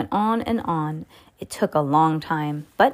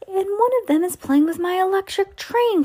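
high-pitched cry; 13 semitones higher than usual. A narrator's reading. Boy sees a duck playing with his train, high outraged cry. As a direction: squeal of childish outrage, very high. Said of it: "cried Philip".

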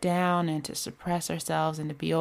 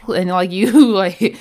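laughing; 9 dB louder than usual. Real, not acted. Laughing at the movie cliché.

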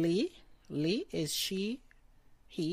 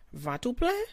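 rising question on "plein", pitched higher; question tune; 7 semitones higher, 4 dB louder than usual. Shown as a demonstration. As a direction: lift "Ventre plein?" up at the end like asking. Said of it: "Like a question".

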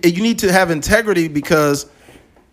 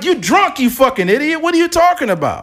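much higher, incredulous outburst; pitched-up outraged mock scolding; exasperated retort; 10 semitones higher than usual. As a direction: snap back in disbelief at a drunk driver. Outraged retort to drunk driver.

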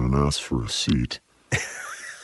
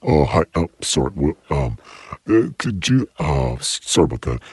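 Woody Allen-ish nervous voice; 3 semitones higher than usual. Pretend. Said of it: "with a little Woody Allen-ish".

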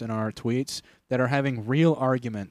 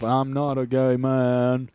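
Forrest Gump; 3 dB louder, much slower than usual. Retold or imitated. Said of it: "more Forrest Gump".

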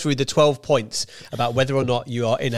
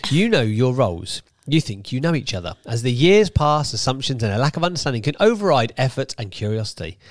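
deliberate magazine-article narration; article reading. Acted. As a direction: read it out deliberately, weighting key words. Reads the article aloud.

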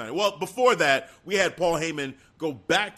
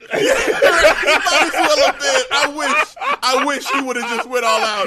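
laughing; 8 semitones higher, 8 dB louder than usual. Real, not acted. Laughing at Apollo's note-taking.

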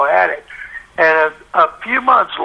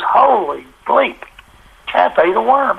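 stunned; 5 semitones higher than usual. Retold or imitated. Wizig after hanging up.

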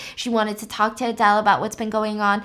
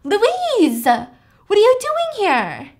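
higher, slow drowsy voice; a drowsy, higher woman's voice; groggy surprised Adele; 9 semitones higher, 5 dB louder, much slower than usual. Retold or imitated. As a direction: sound just woken and dazed. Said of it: "Adele wakes up and says".

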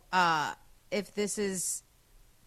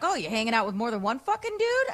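mock furious accusation, fast; 4 semitones higher, 3 dB louder, faster than usual. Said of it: "I just went off".

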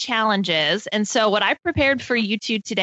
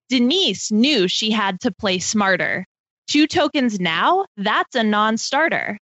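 slow, measured poem reading; reading a limerick; slower than usual. Acted. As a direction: read it out like a rhyming riddle. Reads her limerick aloud.

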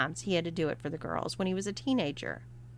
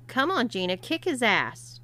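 cheering; 5 semitones higher than usual. Acted. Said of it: "cheered Catherine".

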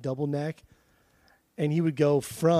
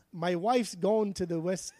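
attempting English, landing in Australian; a failed English accent; lightly Australian-sounding line; accidental Australian accent; 3 semitones higher, 3 dB quieter than usual. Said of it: "that's coming out Australian again".

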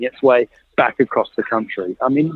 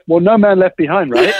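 tongue in cheek; 4 semitones higher than usual. Retold or imitated. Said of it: "my tongue was firmly in my cheek".

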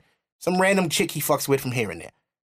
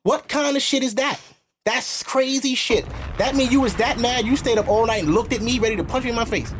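higher-pitched indignant rant; exasperated, pitch raised; outraged disbelief; 6 semitones higher than usual. Real, not acted. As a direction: call it out, appalled. Outraged at ex's behaviour.

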